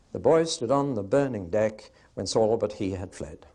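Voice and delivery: put-on metrical recitation with beats on "boy", "burning", "deck"; four-three beat. Shown as a demonstration. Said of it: "That's four three beat".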